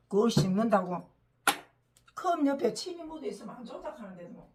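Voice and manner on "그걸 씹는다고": loud disbelieving question; you chew that?!, said in loud disbelief; real loud surprise; incredulous. Real, not acted.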